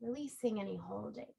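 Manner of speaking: calm yoga-teacher guidance with long pauses; unhurried body-scan meditation voice; guided relaxation. Real, not acted. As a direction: guide them gently into rest, phrase by phrase. Leads a restorative relaxation.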